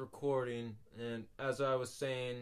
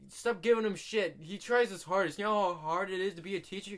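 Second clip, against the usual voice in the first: retold telling-off; 6 semitones higher, 5 dB louder than usual. Telling Aubrey off in class.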